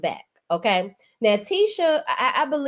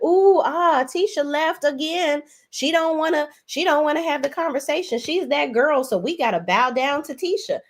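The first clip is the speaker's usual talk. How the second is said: mock awe; 5 semitones higher than usual. Mock awed crowd reacting to Tisha.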